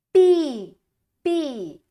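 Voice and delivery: Pi, pi silabado; sounding out. Shown as a demonstration. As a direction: destaque a sílaba pi. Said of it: "É a letrinha P". (sílaba pi em destaque)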